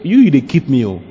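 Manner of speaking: heartfelt pidgin praise with drawn-out "oh"; grateful believer. Acted. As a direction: exclaim it to God, stretching the phrase endings. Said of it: "Just imagine telling the Lord that".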